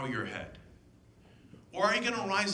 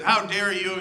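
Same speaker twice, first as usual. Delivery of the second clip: louder, indignant "How dare you?"; mock outrage; 2 semitones higher, 8 dB louder than usual. Obama scolding BP after the oil spill, louder mock outrage. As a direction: play the president's public scolding. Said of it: "Barack Obama got out there and he said".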